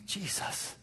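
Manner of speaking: breathy whisper of a name; whispered prayer. Shown as a demonstration. Preacher shows how to cry out, whispered. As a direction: whisper it like a plea. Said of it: "just say".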